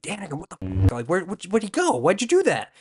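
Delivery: high, stammering bewildered questions; hammed-up confusion, climbing high and loud; mock alarmed outcry. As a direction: imitate flustered people calling after someone. Voices Jedi reacting to Anakin leaving.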